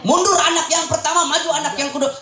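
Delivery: high-pitched marshalling call; calling out orders. Acted. Organiser calling the second child forward, high calling-out.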